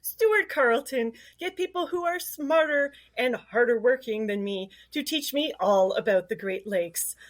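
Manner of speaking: lightly mimicking the co-host's intro; co-host jokingly does Stuart's intro line; imitating Stuart. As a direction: borrow his announcer voice for the welcome. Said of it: "channeling you today, Stuart".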